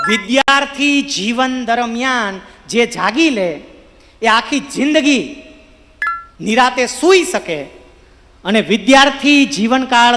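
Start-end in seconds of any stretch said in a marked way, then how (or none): 0.1-7.6 slow. Shown as a demonstration. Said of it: "હું બહુ સરળતાથી તમને કહું".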